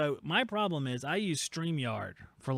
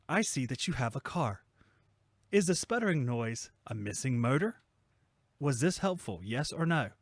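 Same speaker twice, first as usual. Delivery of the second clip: automated chat bot. Acted.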